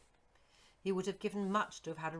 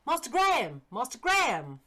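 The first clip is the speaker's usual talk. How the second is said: loud, high call after him, out of breath; running servant calling his young master; breathless calling out; 7 semitones higher, 13 dB louder than usual. Acted. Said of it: "this man exclaimed, breathlessly".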